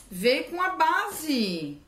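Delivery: high and slow, stretched with delight; pleased, drawn-out surprise. Real, not acted. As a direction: savor the discovery. Surprised it came with base.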